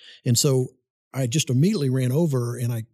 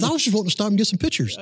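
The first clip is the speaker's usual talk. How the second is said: laughing retelling; 9 semitones higher, faster than usual. Retold or imitated. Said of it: "And he says".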